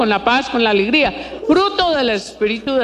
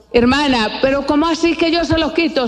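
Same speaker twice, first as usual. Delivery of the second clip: imitated bewildered question, pitched higher; puzzled objection; 4 semitones higher than usual. Preacher voicing a puzzled churchgoer to herself, acted bewilderment. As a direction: act out a listener's baffled protest.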